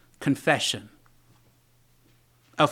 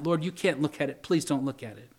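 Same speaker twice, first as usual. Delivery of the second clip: soft, sinking appeal to the Lord; hushed prayer of shame; ashamed plea; 2 semitones lower, 6 dB quieter than usual. Acted. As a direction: beg quietly, voice dropping away. Voices David ashamed before God.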